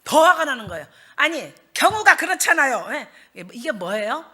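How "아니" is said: usual speaking voice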